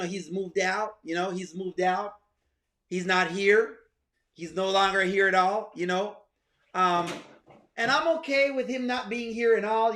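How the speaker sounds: lightly voiced woman telling him she's alone, quiet and coy; girl voice. Host imitating Rolanda telling him she's alone, light girl voice. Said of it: "let me get my girl voice".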